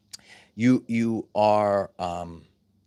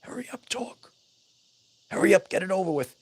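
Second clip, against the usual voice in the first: much higher, fast, whiny hurry up; impatient mock voice; 6 semitones higher, faster than usual. Teacher imitating impatient modern listeners, high fast whine. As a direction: mimic someone who cannot wait for you to finish. Mocking impatient short-attention people.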